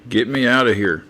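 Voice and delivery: put-on a touch of a young kid calling out; a lightly voiced trapped child; younger voice. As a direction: sound like a boy stuck in a barrel. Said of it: "You sound much, much younger".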